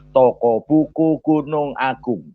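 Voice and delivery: slow, measured reveal, each word stretched; drawn-out punchline. Retold or imitated. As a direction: deliver the joke's answer very deliberately. Slow punchline of his joke. (jawaban lucu diucapkan lambat per kata)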